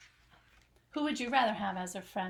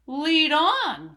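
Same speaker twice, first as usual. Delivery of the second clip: loud eager rat shout; a greedy rat keen to move; eager cry; 4 semitones higher, 9 dB louder than usual. Acted. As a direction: bark the order gladly. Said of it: "cried the rat".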